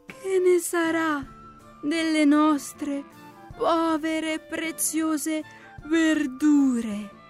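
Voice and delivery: high, very slow plaintive snail; whiny little snail in mourning; snail's lament. A narrator's reading. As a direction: bemoan it with long dragged-out words. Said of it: "si lamentò la lumachina".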